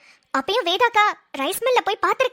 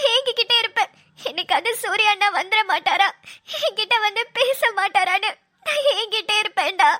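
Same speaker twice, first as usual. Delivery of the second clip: tearful. Acted. Sister weeping over brother's photo.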